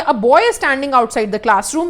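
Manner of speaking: very slow, clear example sentence; slow dictation. Shown as a demonstration. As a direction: spell it out word by word for the class. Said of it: "एक example देखिए".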